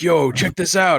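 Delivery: mimicking excited kids. Voicing the kids at work calling out, excited. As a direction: call out eagerly like a kid. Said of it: "the kids I work with".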